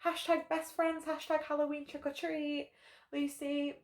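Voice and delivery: mock-gushing Instagram girl; gushing greeting. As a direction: overdo the sweet best-friend act. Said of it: "greeting this girl warmly, like".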